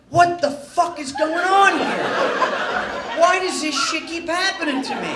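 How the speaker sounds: loud, high, exasperated outcry; freaking out. Retold or imitated. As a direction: act out a hammed-up panic. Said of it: "freaking out".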